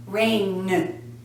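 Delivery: low "rain" with the "n" hummed on; held final N. Shown as a demonstration. Teacher letting learners hear vibration, drawn-out "n" on "rain". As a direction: lengthen the voiced "n" ending "rain". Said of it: "like, hear it".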